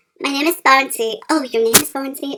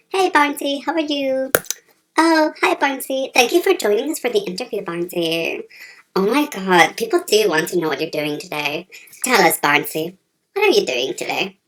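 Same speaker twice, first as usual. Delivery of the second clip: deep interviewer voice; 3 semitones lower than usual. Acted. Low-voiced interviewer persona.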